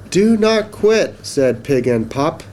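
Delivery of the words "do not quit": slow, high, emphatic cheer; urging encouragement. Acted. Pig and Pup urge Duck on, encouraging. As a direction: spell out each word high and slow.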